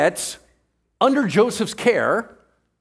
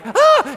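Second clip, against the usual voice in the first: short, high panicked yelp, much higher; panicked shriek; 5 dB louder than usual. Pretend. Moses fleeing into the desert with a high laughing yelp. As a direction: let out a squeal of panic, laughing.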